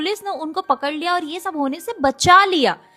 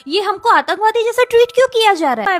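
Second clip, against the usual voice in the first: higher-pitched imitation of a protester; mock complaint; 5 semitones higher than usual. Commentator mimicking a student protesting police checks, mock complaint. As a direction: quote them as a mock-aggrieved whine. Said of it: "dip के कह रहा था".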